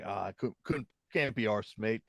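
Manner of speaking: weak mock British accent, lazy tone; a half-hearted cockney go; bad British accent. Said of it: "That was a terrible British accent".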